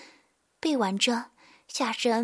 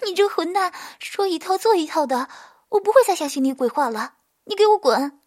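higher, louder furious scolding; angry scolding; 5 semitones higher, 5 dB louder than usual. Acted. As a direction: tell him off, then yell. Tearful furious scolding of lover.

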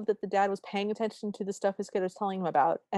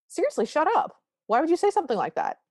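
higher, louder mock yell at his friends; retold yell; 9 semitones higher, 4 dB louder, faster than usual. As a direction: snap at the friends, voice jumping high. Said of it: "He yells at his friends".

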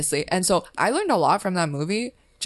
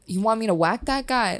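put-on a touch of movie Italian gangster accent, pitched up; Italian mobster impression; 5 semitones higher than usual. Quoting Italian movie gangsters, light Italian mobster accent. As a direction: lightly play a Goodfellas-style hitman. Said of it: "they're like".

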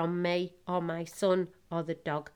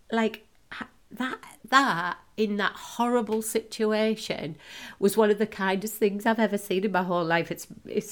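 choked up; 3 semitones higher than usual. Real, not acted. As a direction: voice catching with real emotion, fading to breath. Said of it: "sorry, I'm being really emotional".

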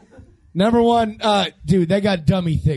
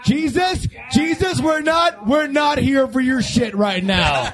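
exasperated shout; 6 semitones higher than usual. Real, not acted. Snapping at interrupting friend.

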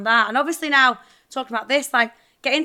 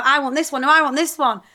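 bickering; 4 semitones higher, 5 dB louder than usual. Retold or imitated. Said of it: "we argue all the time over".

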